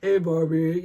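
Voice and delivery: loud playful doll greeting. Retold or imitated. Mother demonstrating her old doll voice, loud and playful. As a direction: call out to Barbie like a kid playing. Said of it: "when I was kid".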